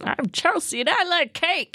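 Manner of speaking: high, cutesy toy voice; squeaky doll catchphrase. Acted. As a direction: chirp it like a pull-string doll.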